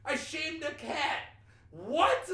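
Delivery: high, loud, slow proclamation; mock defiant shout. Imitating a man defending his cat-shaming video, loud and indignant. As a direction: announce it in hammed-up indignation.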